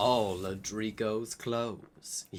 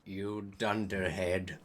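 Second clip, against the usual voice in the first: shouted; 6 semitones lower, 3 dB quieter than usual. Acted. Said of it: "shooted Snape".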